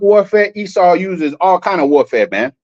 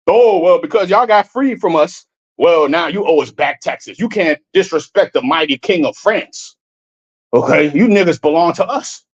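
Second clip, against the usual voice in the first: mock colonial master; 4 semitones lower than usual. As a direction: lightly imitate an entitled overlord laying down the law. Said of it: "so they could just say".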